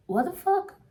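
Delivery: disbelieving shriek at the mess; outraged outcry. Retold or imitated. Roommates yelling about the unflushed toilet, outraged.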